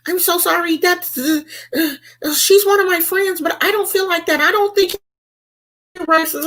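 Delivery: high, pleading mock apology; high flustered apology imitation; apologetic friend. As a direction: play the sorry friend, high-pitched. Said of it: "jumped in my DMs and was like".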